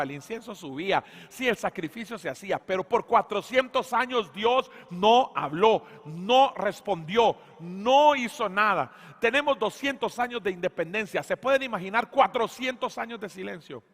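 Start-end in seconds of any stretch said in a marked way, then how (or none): 2.6-13.8 fiery sermon climax; preaching at full force. Acted. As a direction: preach it out, driving each phrase home. Preaching climax about God's silence.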